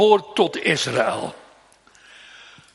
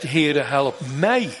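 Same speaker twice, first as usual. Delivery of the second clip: slow plea; slower than usual. Acted. Mother begging the Lord, slow and earnest. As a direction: stretch each word as a humble prayer. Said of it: "En ze zegt".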